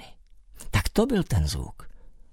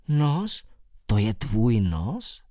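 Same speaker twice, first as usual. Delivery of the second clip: surprised; much slower than usual. Acted. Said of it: "Zvolal jsem překvapeně".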